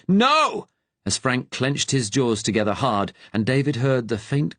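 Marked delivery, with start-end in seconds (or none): 0.1-0.7 sharp high shout of alarm. A narrator's reading. German agent shouting as the prisoner bites the pill, loud high shout. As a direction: yell it out in sudden horror. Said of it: "Gunther shouted".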